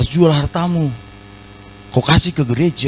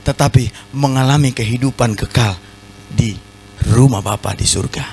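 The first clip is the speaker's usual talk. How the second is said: low, measured and calm, each phrase set apart; hushed solemn reading of the words of Jesus; solemn quote; 3 semitones lower than usual. Shown as a demonstration. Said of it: "Tuhan Yesus mau ngomong sama mereka".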